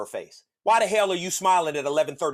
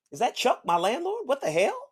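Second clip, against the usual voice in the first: surprised white guy; 9 semitones higher than usual. Retold or imitated. White person spotting his landlord.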